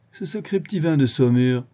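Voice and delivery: "Ce sacré petit vin de Saumur" tossed back teasingly, "vin" leaned on; mocking teasing. Vorski mocks Otto for being drunk, teasing. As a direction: tease him that the wine got to him, stress on "vin". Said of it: "Vorski se mit à rire".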